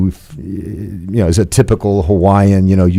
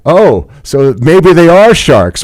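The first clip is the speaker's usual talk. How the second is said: mock alarmed realization; 8 semitones higher, 5 dB louder, slower than usual.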